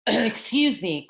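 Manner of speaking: a small voice asking for attention; cricket's polite interruption. Acted. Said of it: "coughed a cricket".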